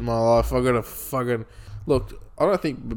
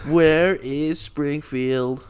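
cartoon voice; 3 semitones higher, much slower than usual. Continues cartoon voice.

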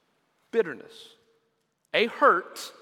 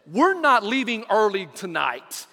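angry daughter; 6 dB louder than usual. Retold or imitated. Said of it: "she got angry".

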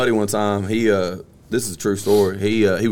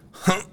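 short, high strained grunt; straining grunt; 10 semitones higher, 4 dB quieter than usual. Acted. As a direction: grunt as if bearing down. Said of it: "So he goes".

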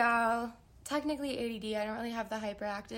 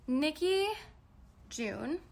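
normal talking voice

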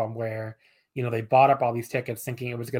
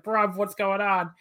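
put-on British accent; 7 semitones higher, slower than usual. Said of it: "I can't do a British accent".

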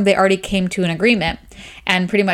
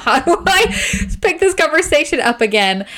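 anxious inner voice; 6 semitones higher than usual. Retold or imitated. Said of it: "thinking about".

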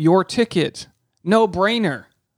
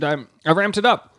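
talking while chewing a grape; words round a bite of grape; mouth full. Real, not acted. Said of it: "I'm eating a grape".

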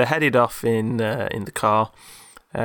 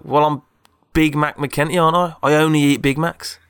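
indignant character; 5 semitones higher, 5 dB louder than usual. Retold or imitated. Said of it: "He's like".

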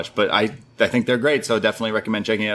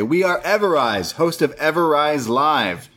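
higher, slower announcer-like mock voice; cheery Everrise intro; 5 semitones higher than usual. Podcaster imitating Everrise introducing their show, higher mock voice. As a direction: introduce yourselves like a peppy show host. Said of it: "They say".

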